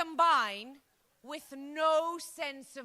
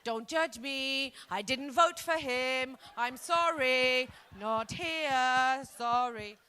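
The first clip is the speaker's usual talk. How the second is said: apologetic American lady; 5 dB louder, much slower than usual. Pretend. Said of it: "one lonely lady quietly".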